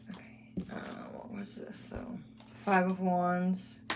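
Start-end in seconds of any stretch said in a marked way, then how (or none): 0.1-2.2 whispered to herself over the cards. Real, not acted. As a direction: breathe the words out with no voice. Muttering to self over cards.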